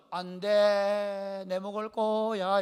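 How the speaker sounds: very slow, drawn-out singsong on one note; teasing refusal. Acted. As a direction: stretch every word, smugly withholding food. Acts Jacob refusing to share stew.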